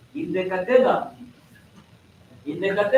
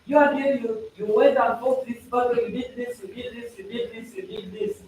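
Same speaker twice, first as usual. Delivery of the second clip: mock commander; 3 semitones higher than usual. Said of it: "the commander would come and say".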